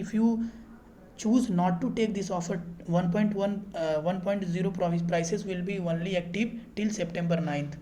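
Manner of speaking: reads the English offer word by word, very slowly; slow reading aloud. Real, not acted. To viewers, reading the on-screen offer slowly. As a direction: spell out the offer text slowly and deliberately.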